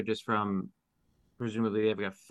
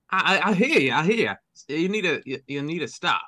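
mild annoyed shout; 4 semitones higher, 5 dB louder than usual. Acted. Player answers knocking in character.

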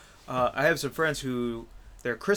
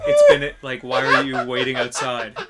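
louder, laughing call to Doug; 7 dB louder than usual. Retold or imitated. Housemates calling to silver-painted Doug outside, laughing call. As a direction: holler at a roommate who won't come in. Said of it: "everyone you live with is like".

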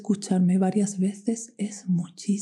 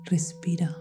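slow breath counting; 2 semitones lower, 11 dB quieter than usual. Acted.

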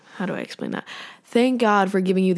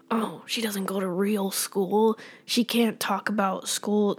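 mock critic; 4 dB quieter, slower than usual. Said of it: "before when I was like".

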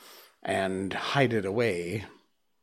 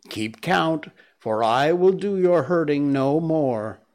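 scornful; 4 semitones higher, 3 dB louder than usual. Acted. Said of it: "shouted Mowgli scornfully".

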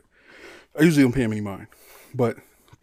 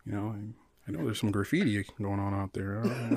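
trailing off; 7 dB quieter than usual. Retold or imitated. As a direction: voice fading away as he hangs up. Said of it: "You whispered that off as you was hanging up?".

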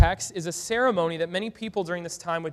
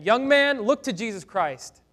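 put-on higher, louder call on "Young man", easing after; mock Methodist pulpit shout that soon settles; preacher's shout; 5 semitones higher, 4 dB louder, slower than usual. Lay preacher calling out to a young stranger, retold shout. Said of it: "he shouted as only a primitive Methodist can".

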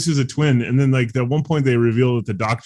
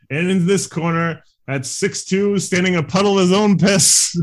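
ring announcer; 6 semitones higher than usual. Retold or imitated. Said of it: "He's like".

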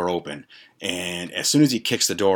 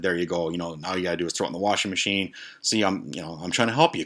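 mock-helpful sarcastic apology; faster than usual. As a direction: fake sweet, sarcastic helpfulness. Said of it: "I sarcastically apologized".

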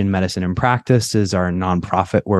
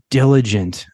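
emphasis on "diligent"; stress on diligent; 3 semitones higher than usual. Real, not acted. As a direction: lean firmly on the word "diligent". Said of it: "let me emphasize that word diligent".

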